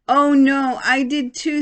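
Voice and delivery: comic realization; sheepish surprise. Acted. Mister Lopez also brought umbrella.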